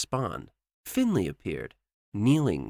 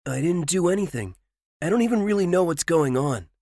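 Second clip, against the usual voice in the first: higher, fast flustered protest; nervous stammer; 9 semitones higher, 5 dB louder, faster than usual. A narrator's reading. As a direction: stammer it out, caught off guard. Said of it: "Ryuga stammered".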